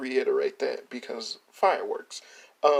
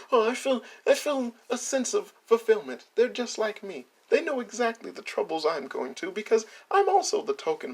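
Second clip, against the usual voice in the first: higher-pitched mock heartfelt voice; mocking quote; 6 semitones higher than usual. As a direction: lightly mimic someone feeling understood. Mock quote of the list writer.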